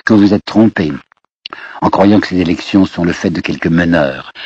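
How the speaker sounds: measured, composed address; calm. Acted. Jaurès answers the prime minister in parliament, calm. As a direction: state it simply, without raising the voice. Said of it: "va dire d'une voix calme".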